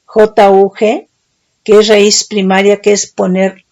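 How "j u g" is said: "J U G" spelled slowly, letter by letter; "J U G" read out one letter at a time, deliberately; "J U G" spelled out carefully for the class; spelling it out. Shown as a demonstration. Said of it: "no, ju".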